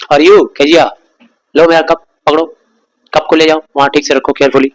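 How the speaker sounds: a hint of a bossy father complaining; scolding father. Father scolding mother about Kezia, irritated. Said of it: "अपने mummy को बुला के बोलते थे उसके पापा".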